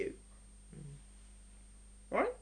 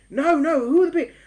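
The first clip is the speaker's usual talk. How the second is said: louder, eager asking, a laugh at the end; curious spouse; 6 semitones higher, 7 dB louder than usual. Acted. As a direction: lean in, dying to know. Spouse asks about neighbours.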